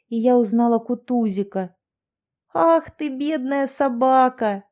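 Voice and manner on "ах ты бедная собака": higher, louder, slow cry of pity; exclaiming with pity. Acted. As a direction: exclaim over the poor dog. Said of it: "воскликнула я".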